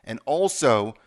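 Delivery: brisk, upbeat host sign-off read; podcast outro. Acted. Host signing off to his listeners, upbeat announcer read. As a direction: wrap up the show like a radio announcer.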